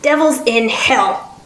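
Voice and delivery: slow, gravelly exclamation; drawn-out grumpy old man's oath. Acted. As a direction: curse in a lightly gravelled voice. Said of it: "came a gravelly voice".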